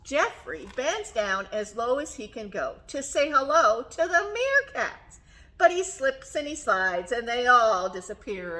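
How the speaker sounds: lively storytime reading with stretched key words; reading to children. A narrator's reading. Teacher reading giraffe picture book to children, animated storytelling. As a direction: read it expressively, lingering on the describing words.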